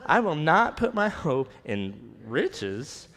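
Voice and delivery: slow, emphatic, indignant refusal; with attitude. Shown as a demonstration. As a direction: drag it out like it's absurd. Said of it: "we gotta say it like that".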